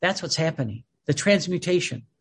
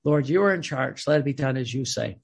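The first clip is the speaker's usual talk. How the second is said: humble surrender; 4 semitones lower than usual. Retold or imitated.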